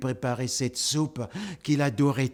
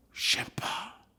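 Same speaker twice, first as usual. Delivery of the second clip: whisper; 8 dB quieter than usual. Real, not acted. Whispered aside.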